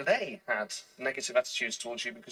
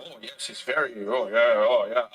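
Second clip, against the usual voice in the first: low mock-approving murmurs of admirers; impressed British listeners; 6 semitones lower, 8 dB louder than usual. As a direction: imitate people nodding along in admiration. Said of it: "And then people were like".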